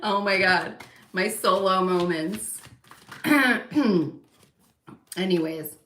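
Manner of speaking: usual speaking voice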